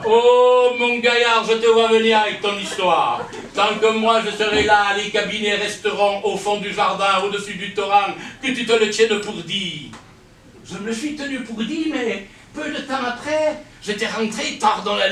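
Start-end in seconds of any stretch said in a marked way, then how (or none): 0.1-9.9 loud, stern father laying down the law; stern father's decree. Retold or imitated. Father forbids his son's indoor toilets, loud and stern. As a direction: thunder at the son, no arguing.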